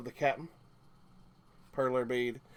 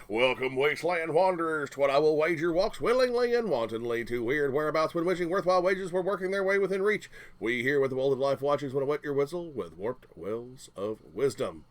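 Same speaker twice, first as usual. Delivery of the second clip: announcer; 4 dB louder than usual. Acted. Alliterative showman patter.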